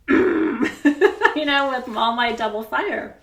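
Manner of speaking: high, loud, laughing through it; giggling at her own fury. Real, not acted. Laughing about her rage.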